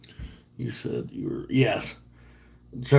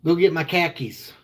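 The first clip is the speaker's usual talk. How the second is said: Boston accent, KHAKIS for car keys; 4 semitones higher than usual. Shown as a demonstration. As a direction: demonstrate Boston talk, KHAKIS without any R. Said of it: "in a Boston accent".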